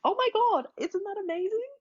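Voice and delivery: very high, over-the-top gushing, fading to a breathy whisper; gushing praise. Pretend. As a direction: rave at them like a thrilled mom. Mom gushing praise at her kids.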